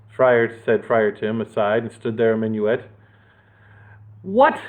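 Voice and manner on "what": higher, mock roar; mild roar. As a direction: roar it in disbelief. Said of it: "roared Horace".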